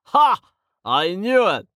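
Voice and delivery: high triumphant laugh; gotcha, delighted. A narrator's reading.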